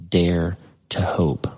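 slow, breathless whisper of hope. Acted. Preacher whispering the verse's turning point to the congregation. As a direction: let the words barely escape, slowly. Hushed key words of the verse.

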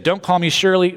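punchline delivered with a lift; joking Peter. Pretend. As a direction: play the gag straight.

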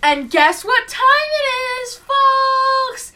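singsong announcer. Acted. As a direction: announce it to the folks. Announcing to listeners.

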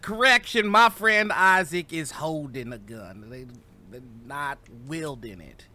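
loud public announcement, easing off by the end; projected, authoritative call that tails down; calming yell. Acted. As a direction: yell a correction to settle the crowd. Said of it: "just kinda yell to calm".

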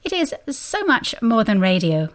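measured, lilting announcer read; polished community radio ident; radio station ID. Acted. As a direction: introduce the station and show like an announcer. Reads station ID.

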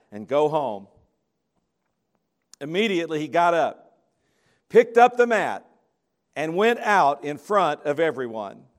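measured, public Bible reading; scripture reading. Acted. Preacher reading Mark to the congregation, solemn reading voice. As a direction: read the passage aloud to the congregation. Reads Mark chapter two aloud.

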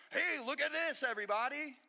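loud, high bragging call to everybody; hammed-up show-off calling for attention; mock show-off. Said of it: "it's like being like".

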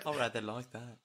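low, soft dummy voice; a sly puppet murmuring low. Acted. Ventriloquist dummy Billy voice.

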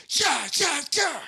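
high mock yell, toned down; loud yell. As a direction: shout yeah to scare a bear. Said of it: "Really loud".

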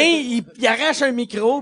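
ordinary talk

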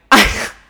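a quick real burst of laughter; short real laugh. Real, not acted. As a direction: laugh out loud for a beat. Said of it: "I'm laughing".

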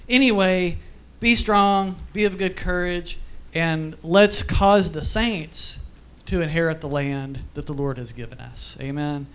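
a stirring charge to the congregation; rally the saints, stretching the words; preaching exhortation. Acted. Pastor charging the congregation to be strong, preaching.

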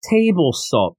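"table" drawn out slowly before "salt"; stress on "table". Shown as a demonstration. Reviewer points out it says table salt, stressing "table". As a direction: set "table" apart, slow and deliberate.

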